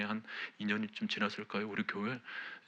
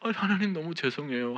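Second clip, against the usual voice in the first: retold tearful repentance; 4 semitones higher, 5 dB louder than usual. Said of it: "정말 또다시 눈물을 흘렸습니다".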